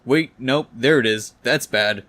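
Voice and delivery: a touch of mounting panic; mild pained yell. Acted. Peter feeling the arms attach, mild pained yell. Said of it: "he yells in pain and agony".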